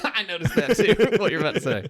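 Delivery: laughing while talking. Real, not acted. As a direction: say it through a laugh. Laughing at shared joke.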